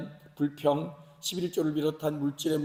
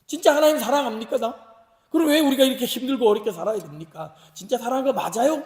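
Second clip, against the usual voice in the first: louder, higher pleading challenge; protesting; 4 semitones higher, 5 dB louder than usual. Acted. Israelites questioning God's love amid hardship, protesting. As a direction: demand an answer with acted frustration. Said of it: "이스라엘 백성들이 그랬던 거예요".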